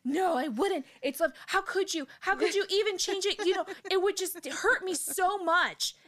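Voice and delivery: high, loud, swooning plea, slowing at the end; gushing mock devotion. Friend retelling the novel, mimicking a lovestruck plea. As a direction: ham up a lovestruck girl begging. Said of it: "And she's like".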